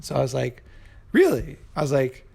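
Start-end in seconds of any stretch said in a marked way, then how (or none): 1.1-1.6 mock disbelief, voice pitched up high; surprised. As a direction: play it up as if you can't believe it. Hearing she found a doctor.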